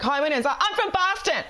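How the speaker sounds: comic put-on Hilaria accent, pitched high; exaggerated mock accent, high-pitched; Hilaria impression. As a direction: introduce yourself in a hammed-up high accent. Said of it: "I love your accent. Can you give me another Hilaria".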